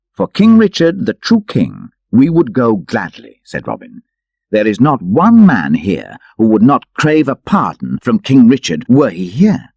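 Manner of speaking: a hint of Robin vowing loyalty; lightly voiced proud Robin. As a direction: swear it with pride. Robin declares loyalty to king.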